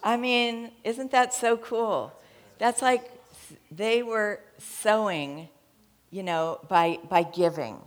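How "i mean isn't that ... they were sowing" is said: higher, louder, drawn-out delight; excited. Real, not acted. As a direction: stretch it out with joy. Excited reaction to good news.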